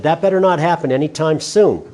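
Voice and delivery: chuckling through a teasing warning; 웃으면서 농담처럼; laughing joke. Real, not acted. Joking aside to students.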